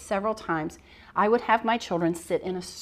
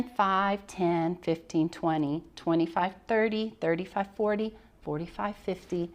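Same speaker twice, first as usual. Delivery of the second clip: counting aloud. Shown as a demonstration. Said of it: "This student sits down".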